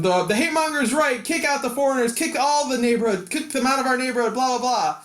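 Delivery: mild mock yell of an angry crowd; mock screaming. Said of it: "And they're screaming".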